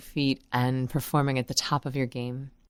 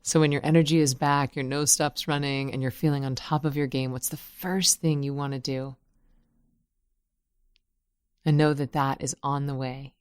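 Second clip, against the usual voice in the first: measured affirmations with long pauses; guided meditation. Real, not acted. Guide inviting unwell listeners to think healing thoughts, unhurried meditation voice. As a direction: lead them gently through each thought, leaving space.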